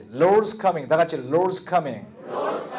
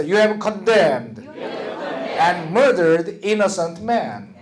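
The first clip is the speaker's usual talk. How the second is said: very slow, word-by-word reading aloud; slow choral reading; much slower than usual. Shown as a demonstration. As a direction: drag each word out for the class to follow. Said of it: "자, 읽읍시다". (아주 천천히 함께 읽기)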